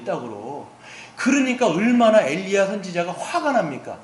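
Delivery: usual speaking voice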